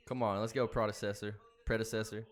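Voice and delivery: urging on. Real, not acted. Urging horse on.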